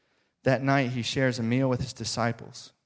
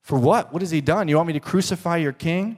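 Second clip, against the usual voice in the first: a higher, louder, mildly taken-aback Pilate; 5 semitones higher, 5 dB louder than usual. Retold or imitated. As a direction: push back, a little startled. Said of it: "a little bit taken aback".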